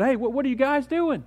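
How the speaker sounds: high, loud desperate plea to pray; urgent pleading. Acted. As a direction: beg them urgently to stay awake. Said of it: "he said".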